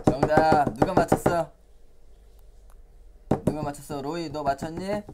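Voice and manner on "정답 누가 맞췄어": excited praise. Acted. Praising correct answer.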